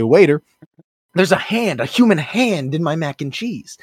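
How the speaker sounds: hammed-up outraged diner; calling the waiter. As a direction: call out a staged complaint to the waiter. Acted calling waiter over in alarm.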